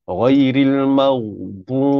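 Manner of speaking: ghairil maghbu slow, ghain not bounced; correct recitation. Shown as a demonstration. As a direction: model it slowly. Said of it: "tidak dilantunkan huruf ghain". (ghain tidak dilantunkan, perlahan)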